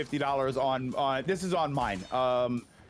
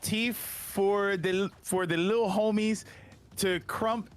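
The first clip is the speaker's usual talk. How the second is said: put-on 1 Ork accent; 2 semitones higher, slower than usual. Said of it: "I don't know if I got the right accent here".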